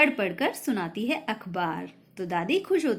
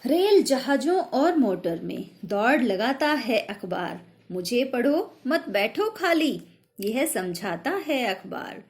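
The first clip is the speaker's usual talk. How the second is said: poem recitation. Shown as a demonstration. Teacher recites next poem verse. (कविता पाठ)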